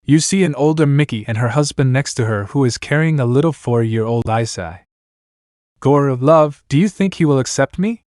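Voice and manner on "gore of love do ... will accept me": doubtful. Acted. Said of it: "I said it doubtfully".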